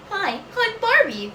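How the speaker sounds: high-pitched doll voice; Barbie. Acted. Vlogger showing off a doll impression, high put-on voice. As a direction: put on a high, girly toy-doll greeting. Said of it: "The holy Barbie voice".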